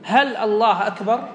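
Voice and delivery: slow question with "هل" up front, rising on "أكبر"; استفهام. Shown as a demonstration. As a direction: ask it slowly, lifting the end of "أكبر". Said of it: "يعني كأنك تستفهم". (سؤال متمهّل "هل الله أكبر؟" بنغمة صاعدة)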